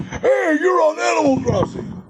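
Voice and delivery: high, excited call of recognition, almost a shout; excited fan call. Retold or imitated. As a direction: mimic a thrilled fan spotting a celebrity. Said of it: "everybody in the world started".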